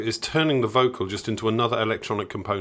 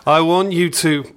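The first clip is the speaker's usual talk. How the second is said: slow, breathy come-on, louder and higher; sultry female voice; 7 semitones higher, 8 dB louder than usual. Retold or imitated. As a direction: purr it out like the woman on the record. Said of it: "you just hear a female voice going".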